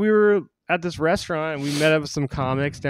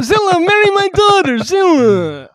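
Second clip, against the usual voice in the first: high, loud hammed-up Jewish accent; exaggerated Jewish accent, pitched way up; mock Jewish accent; 8 dB louder than usual. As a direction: call out in a put-on Jewish accent. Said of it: "that's my Jewish accent".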